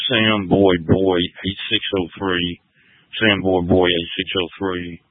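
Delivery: usual speaking voice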